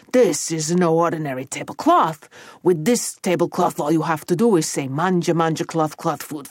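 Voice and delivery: a hint of an Italian ogre showman; emphatic ogre, lightly put on; lightly voiced ogre boss. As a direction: present the magic with relish.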